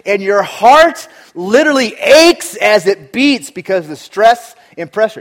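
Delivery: loud, intense preaching; a pastor crying out about life's pressure; preaching at full force. Acted. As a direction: hammer each phrase home. Preacher pounds the point.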